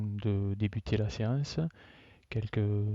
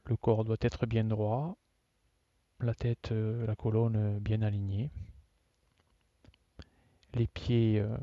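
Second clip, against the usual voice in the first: measured yoga nidra instruction with long pauses; guided relaxation. Real, not acted. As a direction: guide them phrase by phrase, leaving long silences. Leads a yoga nidra session.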